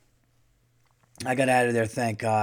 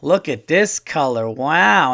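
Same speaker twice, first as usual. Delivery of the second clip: lightly imitated wowed shopper, louder on the exclamation; mock marvelling at the goods; a hint of a gushing old-school lady; admiring older woman; 5 dB louder, slower than usual. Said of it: "she's, like, putting 'em up".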